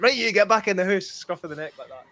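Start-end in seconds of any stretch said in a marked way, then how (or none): 0.0-1.1 stern dad voice. Retold or imitated. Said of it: "your dad coming to tell you".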